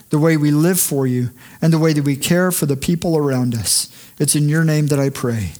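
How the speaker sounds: closing prayer. Acted.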